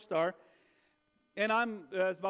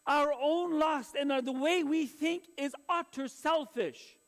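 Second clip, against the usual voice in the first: emphatic, projected sermon voice; preaching; 6 semitones higher, 3 dB louder than usual. Acted. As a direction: preach it to the congregation in weighty phrases. Preaches to congregation.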